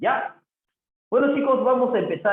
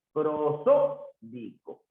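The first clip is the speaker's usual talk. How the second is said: "Prosódico" very slow, split into syllables; slow syllabified "Prosódico"; much slower than usual. Shown as a demonstration. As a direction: stretch "Prosódico" out for the class, falling at the end. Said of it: "esta palabra tiene cuatro sílabas".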